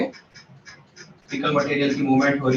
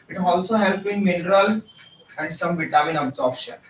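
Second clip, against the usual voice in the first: slow dictation; much slower than usual. Shown as a demonstration. Teacher dictates key fact slowly.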